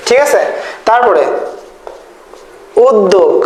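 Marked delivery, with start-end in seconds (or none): 2.9-3.3 উদ্যোগ said with a doubled d, ud-dog; d-sound variant. Shown as a demonstration. Teacher giving the first accepted pronunciation, with a doubled d. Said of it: "বা অনেকে বলে".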